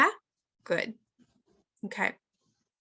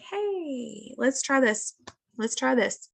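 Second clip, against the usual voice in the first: gentle coaxing; 4 semitones higher, slower than usual. Retold or imitated. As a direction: imitate a mother coaxing her daughter. Mother voiced coaxing overwhelmed daughter.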